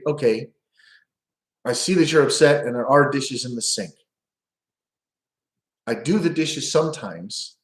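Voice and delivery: patient, even, reassuring tone; calm empathic reply. Shown as a demonstration. Husband calmly validating upset wife, calm and reassuring. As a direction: defuse her gently. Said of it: "would instead pivot".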